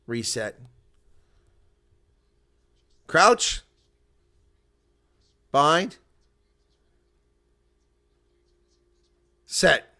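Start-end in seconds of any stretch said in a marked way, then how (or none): 3.1-9.9 mock referee calls, higher and louder; referee's scrum call. Streamer echoing the referee's scrum calls, louder. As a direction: bark the scrum calls like the ref.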